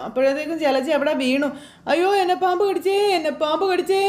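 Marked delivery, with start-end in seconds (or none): 1.9-4.0 high, frantic wail; panicked cry. Acted. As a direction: cry out that the snake bit her. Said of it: "Jalaja ഇങ്ങനെ കിടന്ന് പറയും".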